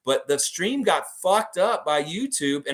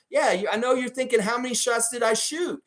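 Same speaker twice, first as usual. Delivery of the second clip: higher-pitched mock tough guy; Clint Eastwood; 9 semitones higher than usual. Fan paraphrasing a film taunt, lightly mock tough guy. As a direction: lightly act out a movie cop's taunt. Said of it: "It's kinda like Clint Eastwood".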